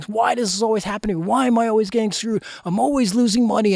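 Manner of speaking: retold rant, not a full yell; mock emphatic yelling. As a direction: rattle off the gripes with emphatic frustration. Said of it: "screaming and yelling emphatically with power".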